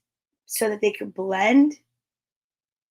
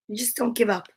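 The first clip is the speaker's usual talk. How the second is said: unvoiced, softer whispered pep talk; 5 dB quieter than usual. Real, not acted. Teacher whispers to herself after a hard name, whispered. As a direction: whisper it as a private nudge.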